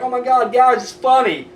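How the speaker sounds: imagine gushing to the guys, tongue in cheek; mock enthusiastic fan. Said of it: "I'll be like".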